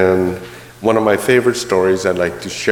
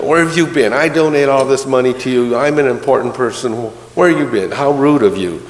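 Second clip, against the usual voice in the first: a somewhat raised, indignant rant; going ballistic; 3 semitones higher than usual. Acted. Rich merchant berating the late priest, indignant rant. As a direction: scold the absent priest like an offended donor. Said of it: "The merchant's going ballistic".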